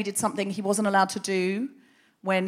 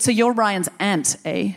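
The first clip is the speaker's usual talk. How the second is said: slow mock-menacing Canadian questioning; lightly sinister Canadian elder with a pointed "eh"; sinister Canadian accent; 3 dB louder, slower than usual. Elder questioning the aunt's cover story, sinister Canadian accent. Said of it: "hard to make the Canadian accent sinister".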